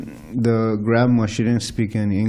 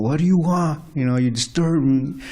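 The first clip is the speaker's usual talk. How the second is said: mock yelling; 5 semitones higher than usual. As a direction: snap at an interrupter in a mild mock yell. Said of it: "he started yelling at Jamal".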